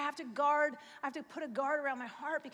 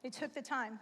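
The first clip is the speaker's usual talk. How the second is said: choked up; 2 semitones lower than usual. Real, not acted. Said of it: "I don't know why I got emotional about that".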